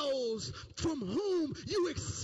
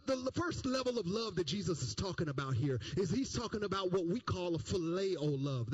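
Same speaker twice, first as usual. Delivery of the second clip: ordinary talk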